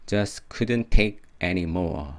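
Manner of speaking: very slow repeated phrase, final consonants unreleased; slow drill. Shown as a demonstration. Teacher drilling the end of the lyric, slow and even. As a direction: drill it evenly and slowly.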